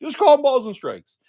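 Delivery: hammed-up self-righteous justice; mocking a justice. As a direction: parrot the pious slogan sarcastically. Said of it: "they all go up there and they go".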